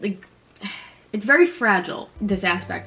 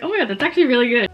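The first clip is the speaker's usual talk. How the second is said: pleased surprise; 4 semitones higher, 5 dB louder, much faster than usual. Retold or imitated. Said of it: "I look back now and I'm like".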